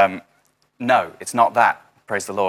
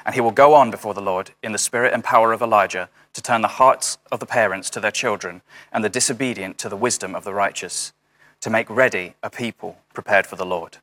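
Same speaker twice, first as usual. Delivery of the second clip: scripture reading. Acted. Reading angel's words from Luke.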